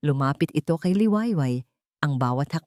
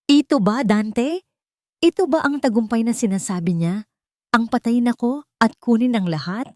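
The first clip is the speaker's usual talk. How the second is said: higher, louder accusing questions; angry confrontation; 6 semitones higher, 4 dB louder than usual. A narrator's reading. Liwayway confronts Dante with the diary, angry. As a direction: demand an answer, voice raised.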